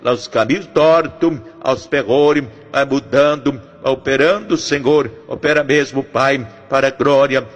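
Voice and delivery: urgent, rhythmic intercession, pressing each plea; fervent prayer. Acted. Pastor praying over the families listening, fervent rhythmic prayer. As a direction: pray it out like a pastor pleading for families.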